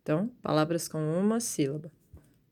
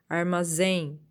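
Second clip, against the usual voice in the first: Armazém with a strong ZÉM; final-syllable stress; slower than usual. Shown as a demonstration. Teacher showing pupils an oxítona, stressed on the end. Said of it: "a última sílaba é a forte".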